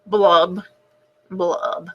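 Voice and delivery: lightly voiced glum fish, blubs dropping away; a hint of a sulky fish singing his sad refrain; gloomy fish. Pout pout fish moaning his refrain, mildly glum.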